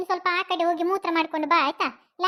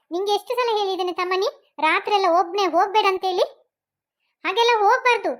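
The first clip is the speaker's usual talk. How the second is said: scolding; 3 dB louder than usual. Acted. Mother scolds son for wandering.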